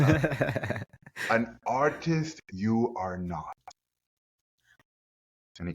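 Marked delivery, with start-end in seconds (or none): 1.3-3.6 slow, spaced-out verdict; Yoda. Retold or imitated. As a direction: imitate the teacher's odd syntax very slowly. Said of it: "He talked like Yoda".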